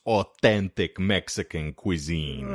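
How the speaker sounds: lightly put-on Italian accent, slow; mock-Italian lilt, stretched out. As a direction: draw it out with an Italian flourish. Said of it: "throwing in an Italian accent".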